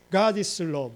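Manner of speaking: GOD hit hard and held, falling to the end; emphasis with big stress. Shown as a demonstration. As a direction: lean heavily on "God is love". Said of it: "emphasis with big stress".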